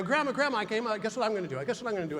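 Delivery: hurried, excitable data dump; eager teenager rush. Retold or imitated. Teenager runs in to tell grandmother an idea, eager rush. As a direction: rush it out, tripping over the words. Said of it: "I do a data dump on my grandmother".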